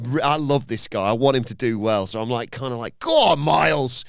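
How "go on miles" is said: drawn-out, raised cheer. Acted. Fan willing a favourite wrestler on, cheering. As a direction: urge your man on, louder and higher.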